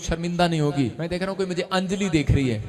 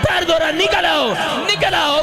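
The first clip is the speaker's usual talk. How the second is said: high, relentless deliverance shouting; exorcist's shouted command; 10 semitones higher, 7 dB louder, slower than usual. Real, not acted. Preacher ordering foul spirits to leave the womb, shouted commands. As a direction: drive the spirit out, punching each short phrase.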